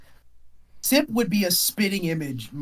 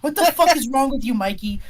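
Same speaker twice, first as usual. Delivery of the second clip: high, loud, fast cussing out; angry yelling; 8 semitones higher, 5 dB louder than usual. Acted. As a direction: chew him out at full tilt. GM voices angry woman scolding.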